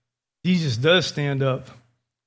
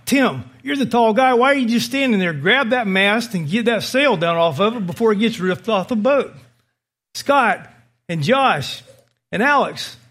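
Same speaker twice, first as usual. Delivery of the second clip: commanding captain; 2 semitones higher than usual. Retold or imitated. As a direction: take command of the boat, calling each man out. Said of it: "begin to bark orders to take a command presence".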